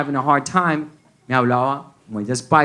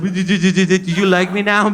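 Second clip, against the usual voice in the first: slow deadpan; 5 semitones higher, 3 dB louder, much slower than usual. Retold or imitated. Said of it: "I was just like".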